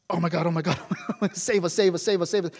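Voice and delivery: hushed, rapid mock panic prayer; frantic praying. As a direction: imitate a kid frantically repeating a prayer. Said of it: "it's this frantic".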